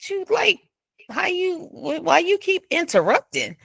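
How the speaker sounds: high, exasperated mock complaint; annoyed question. Retelling a date, annoyed that the woman keeps interrupting. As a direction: ask her, half-annoyed, why she keeps cutting in.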